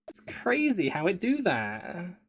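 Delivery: slow, high, hammed-up wonder; mock wonder. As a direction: marvel at it like magic.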